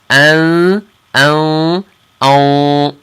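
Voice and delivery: held nasal "An" repeated; nasal ikhfa. Shown as a demonstration. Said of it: "hear the difference".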